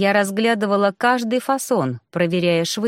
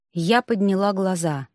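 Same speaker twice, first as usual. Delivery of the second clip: ordinary delivery, nothing marked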